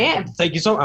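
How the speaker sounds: high-pitched flustered gushing; retold giddy thanks to an idol; starstruck, freaking out. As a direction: act out an overawed fan. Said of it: "I'm freaking out".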